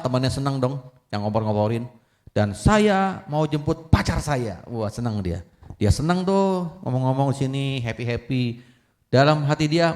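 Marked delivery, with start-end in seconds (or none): 2.3-4.6 slow, high, drawn-out boast; proud announcement. Acted. Son tells cheering classmates about his girlfriend, slow proud boast. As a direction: stretch it out for the crowd.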